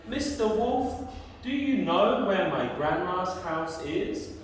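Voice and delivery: lightly voiced girl in a tale, lifted at the start; Red Riding Hood. Red Riding Hood asks the wolf the way, lightly voiced. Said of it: "She says to the wolf".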